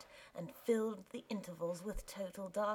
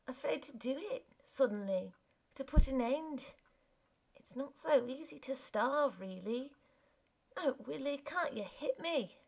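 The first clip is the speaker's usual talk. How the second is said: wife's pleading voice; 5 semitones higher than usual. Acted. Wife confesses to husband.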